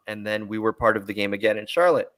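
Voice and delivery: talking through hiccups; hiccuping. Real, not acted. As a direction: hiccups catching the words. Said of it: "Excuse me, I'm hiccuping".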